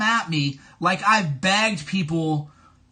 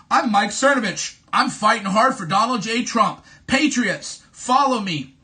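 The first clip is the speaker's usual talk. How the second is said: mock self-promoting tweet; 4 dB louder than usual. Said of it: "Have you ever seen a fucking tweet like".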